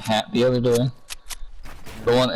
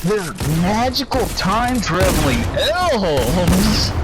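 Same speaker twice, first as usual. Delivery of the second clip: Cat in the Hat voice; 6 semitones higher, slower than usual. Retold or imitated. Retelling the cat's lie to the kids, high slow sly. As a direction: make it up on the spot, slyly. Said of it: "he's like".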